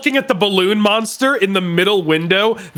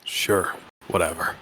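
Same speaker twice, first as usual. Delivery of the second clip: bored customer voice; 11 semitones lower, 9 dB quieter than usual. Acted. Voicing game customer.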